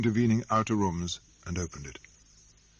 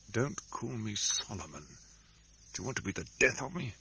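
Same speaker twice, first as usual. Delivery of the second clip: softer, hurried fearful hiss; furtive and frightened; 6 dB quieter than usual. Acted. Solomon silences his sister, furtive and frightened. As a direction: hush her fast, afraid. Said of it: "in a furtive, frightened way".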